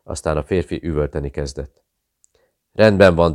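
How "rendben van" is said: Rendben van yelled out high and loud in pain; breaking shout. Acted. Tortured pilot giving in to interrogators, loud shout. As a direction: scream "Rendben van" as he finally cracks. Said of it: "kiáltotta Nicky Tyne".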